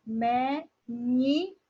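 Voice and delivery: "menino" very slow, in three separate pieces; me, ni, no with clear gaps; syllable by syllable. Shown as a demonstration. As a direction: sound out "menino" for a class. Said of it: "é pronunciado de uma maneira mais forte".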